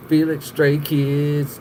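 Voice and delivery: slow, drawn-out announcer-like naming; mock TV show title. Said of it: "should be like a T V show".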